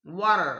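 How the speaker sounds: water as "wadder"; water with a soft D flap. Shown as a demonstration. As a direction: tap the T in water like a quick D. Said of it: "डमरू का ड नहीं है".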